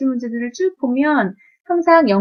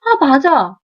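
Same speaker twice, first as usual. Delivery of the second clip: acted aha moment, a bit louder; sudden realization; 3 semitones higher, 5 dB louder, much slower than usual. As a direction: play a student suddenly catching on. Student spots the missed detail.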